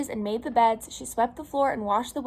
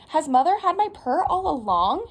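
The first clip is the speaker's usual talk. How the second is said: raised, incredulous question; wondering; 5 semitones higher, 6 dB louder than usual. A narrator's reading. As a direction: wonder aloud with a lifted, swooping voice. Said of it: "she wondered".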